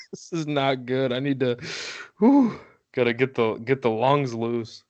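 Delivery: winded after a fast ramble; catching breath between words. Real, not acted. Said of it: "huffing and puffing".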